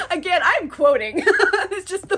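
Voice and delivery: words through laughter; laughing while talking. Real, not acted. Explaining the quote to viewers, laughing as she talks. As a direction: talk through the giggles.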